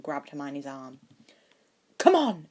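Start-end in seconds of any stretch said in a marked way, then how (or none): 2.0-2.5 higher, louder urgent plea; desperate. A narrator's reading. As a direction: pull her away in panic. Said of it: "he said desperately".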